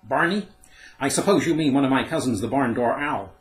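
high, loud, haughty owl voice; grand lofty owl. A narrator's reading. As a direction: look down your beak at him. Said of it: "she remarked loftily".

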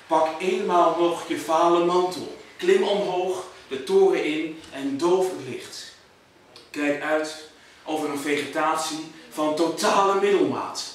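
measured poetry reading with deliberate pauses; poem recital. Acted. Poet reciting to an audience about Houten, measured recital. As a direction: recite it line by line, weighing each phrase.

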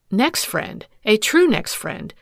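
bitter scorn on next friend; scornful jilted wife. Acted. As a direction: spit out the words with contempt. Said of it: "she scorned".

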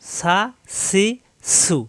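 সা, সি, সু with a sharp, light s; firm thin s. Shown as a demonstration. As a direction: keep সা, সি, সু thin, not rounded. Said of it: "পার্থক্য অবশ্যই আছে".

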